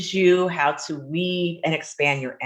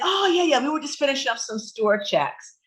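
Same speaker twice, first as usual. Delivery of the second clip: husband's excuse; 9 semitones higher than usual. Retold or imitated. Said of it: "he was like".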